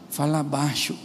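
low, softened husband voice; hushed scolding. Acted. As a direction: keep it down, slow and low. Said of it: "Seu marido fala assim com a senhora".

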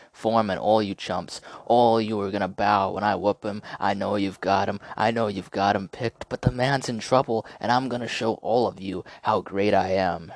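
a hint of a cocky boxer; Ali taunt. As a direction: taunt the doubters.

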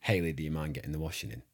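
quick attempt at a Midlands accent; imitated Midlands accent. Shown as a demonstration. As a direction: copy the co-host's Midlands accent briskly. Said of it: "someone from the Midlands".

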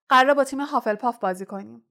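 indignant retelling of the rival's words; mock quoting, indignant. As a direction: rattle off the rival's excuse in disbelief.

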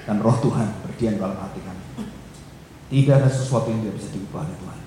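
earnest congregational prayer. Acted. Pastor praying for the congregation, earnest prayer voice. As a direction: pray for the church, steady and earnest.

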